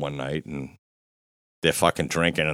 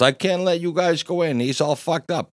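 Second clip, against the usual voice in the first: higher-pitched doorman protest; protesting refusal; 10 semitones higher than usual. Retold or imitated. Doorman refusing drunk friends at the door, protesting refusal. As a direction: act out turning them away at the door.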